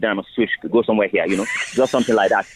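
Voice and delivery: quick switch into a Nigerian accent. Shown as a demonstration. Actor demonstrating for a radio host, Nigerian accent. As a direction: slip briskly into a Nigerian accent. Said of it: "if I must do a Niger accent".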